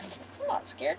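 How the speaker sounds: breathy high squeak of denial; mock tough, voice cracking up high; fake bravado. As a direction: insist you're fine while clearly scared. She denies being terrified.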